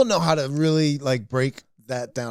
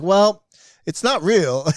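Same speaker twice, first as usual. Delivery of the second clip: pawn shop owner; 5 semitones higher, slower than usual. Retold or imitated. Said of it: "He's like".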